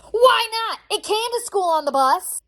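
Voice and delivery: loud, high incredulous outburst; indignant protest. Acted. Mom to school refusing the mouse on the bus, indignant. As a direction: push back in disbelief, slowing to spell it out.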